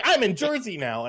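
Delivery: high-pitched, loud mimicked Jersey accent; mock Jersey accent. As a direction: imitate a friend slipping into Jersey. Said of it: "and you were like".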